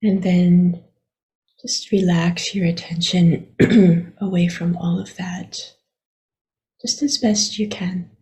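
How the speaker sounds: unhurried meditation guidance with long pauses; guided meditation. Acted. Teacher guiding listeners to relax their attention, unhurried meditation voice. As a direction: gently lead them inward, leaving long silences.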